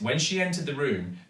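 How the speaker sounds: ordinary delivery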